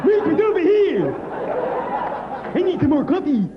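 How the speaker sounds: high, loud shouting across the diner; high excited shout for coffee; calling out. Pretend. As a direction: yell across the room for the waitress. Calling out at Denny's 3am.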